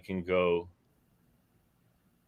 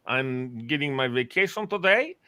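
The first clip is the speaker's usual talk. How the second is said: Russian general; 3 semitones higher than usual. Pretend. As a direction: play a pompous Russian general. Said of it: "Come as Putin's, uh, general".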